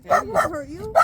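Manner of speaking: high reassurance to a dog. Real, not acted. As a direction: reassure the scared dog brightly.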